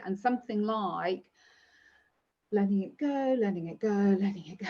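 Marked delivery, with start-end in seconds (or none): 2.5-4.7 calm mantra. Shown as a demonstration. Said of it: "maybe you say".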